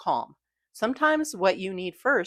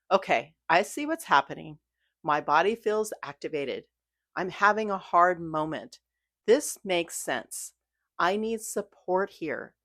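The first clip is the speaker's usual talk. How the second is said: kind self-talk. Retold or imitated. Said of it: "Real mindfulness sounds more like".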